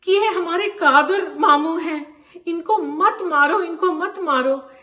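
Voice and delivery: urgent pleading. Acted. Brother begging rioters to spare Uncle Qadir, urgent pleading. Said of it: "उनको बार बार बोलते रहे".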